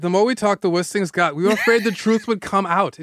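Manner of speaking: put-on lightly German-accented quote. Pop star admits his fear of exposure, German accent. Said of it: "I like doing a German accent".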